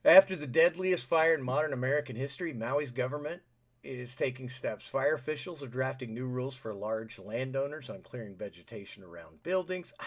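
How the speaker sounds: reading the headline out; newsy read-aloud tone; news read. Acted. Reading the news story aloud to co-host.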